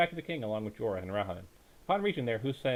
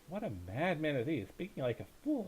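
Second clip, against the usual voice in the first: murmured aside; 4 semitones higher, 6 dB quieter than usual. Acted. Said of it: "Rahman murmured".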